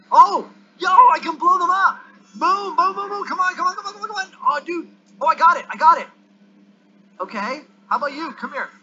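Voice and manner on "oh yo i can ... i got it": high, loud burst of discovery; excited. Real, not acted. Player finds he can blow them up, excited shouting. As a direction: shout it out, thrilled, high and urgent.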